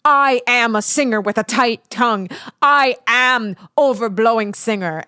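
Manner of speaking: grand mock declaration; emphatic, put-on self-labelling voice; singer persona. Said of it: "take on this persona".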